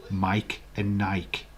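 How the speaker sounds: Mike and Nike slow, one syllable each; rhyming demonstration. Shown as a demonstration. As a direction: make Nike rhyme with Mike. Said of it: "I'm gonna challenge you".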